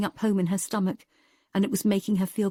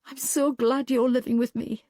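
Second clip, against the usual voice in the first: a smiling, higher thank-you; a touch of smiling warmth to a friend; with a smile; 4 semitones higher than usual. Acted. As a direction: say it grateful and smiling. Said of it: "she said with a smile".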